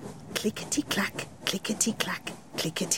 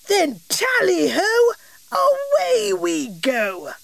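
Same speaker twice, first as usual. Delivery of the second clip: excited cry; 11 semitones higher than usual. Acted. King Jolly sends the train off, high joyful cry. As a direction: cheer the journey off like a happy king. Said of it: "cried the king".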